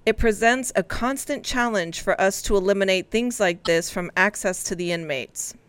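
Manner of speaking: measured, matter-of-fact news reading; grown-up news read. Shown as a demonstration. Co-host re-reading the jail story for teasing colleagues, grown-up news read. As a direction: read it out like a serious adult. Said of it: "read this as an adult for you".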